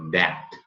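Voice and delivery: "back" with an open E for the A. Shown as a demonstration. Teacher repeats the vowel for learners, open-E demo. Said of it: "é um E aberto para o A".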